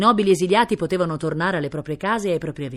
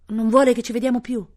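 higher, louder worried question; alarmed girl; 7 semitones higher, 5 dB louder than usual. A narrator's reading. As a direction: ask in sudden dismay. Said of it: "Ursula si spaventò". (ragazza spaventata)

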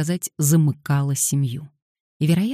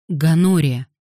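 stern; 2 semitones higher, 5 dB louder than usual. Acted. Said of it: "строго произнёс он".

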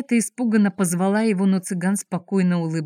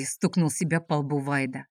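ordinary delivery, nothing marked

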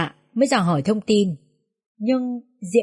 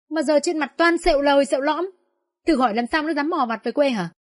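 climbing high in bitter outrage; 4 semitones higher than usual. Acted. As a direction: throw the apology back in their faces. Neighbour rejects apology. (phẫn nộ cay đắng)

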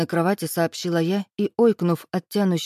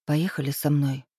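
cautious offer; 3 semitones lower than usual. A narrator's reading. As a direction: offer gently. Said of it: "осторожно предложив".

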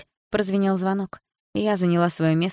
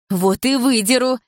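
slow, loud threat; defiant retort; 6 semitones higher, 5 dB louder, slower than usual. A narrator's reading. Dilara threatening Milana while pulling her hair, defiant. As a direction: spit back your threat.

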